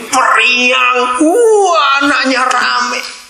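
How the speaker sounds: delighted. Acted. Acting delight at a cheerful child.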